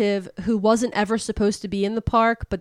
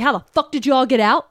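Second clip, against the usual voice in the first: retold outrage, higher and fast; bamboozled and pissed; 4 semitones higher, 4 dB louder, faster than usual. Villain confronts her escaped captives, mock bamboozled outrage. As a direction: imitate someone baffled and mad. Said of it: "she's bamboozled".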